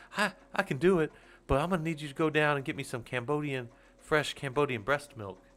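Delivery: a hint of a cocky music boss making a demand; a rapper's voice. Retelling Chappelle's rapper impression bossing the band, light impression. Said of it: "Dave Chappelle doing his P Diddy voice".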